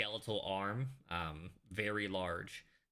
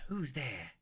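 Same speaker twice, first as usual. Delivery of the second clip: higher-pitched acted call; 5 semitones higher than usual. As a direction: call into the next room, kept fairly contained. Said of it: "so you call out".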